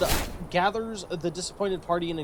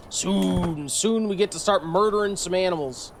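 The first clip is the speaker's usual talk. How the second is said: gleeful; 4 dB louder than usual. Real, not acted. Eager gamer before the hunt.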